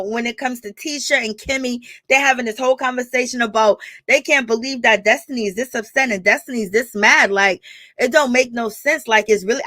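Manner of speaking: ordinary talk, nothing marked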